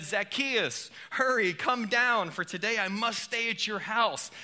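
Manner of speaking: a touch of eager excitement, calling up to him; excited Jesus. Acted. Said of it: "I imagine Jesus being excited".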